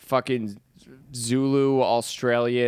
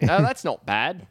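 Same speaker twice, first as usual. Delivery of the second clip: attempted Australian accent; 3 semitones higher, slower than usual. Shown as a demonstration. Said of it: "I don't know how to do an Australian accent".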